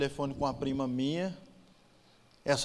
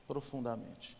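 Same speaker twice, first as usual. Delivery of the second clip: "profundamente" repeated much softer, falling away; quiet echo; 10 dB quieter, slower than usual. Shown as a demonstration. Repeating the word to himself, dropping to a hush. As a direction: let "profundamente" fade out almost under the breath. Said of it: "marcou profundamente".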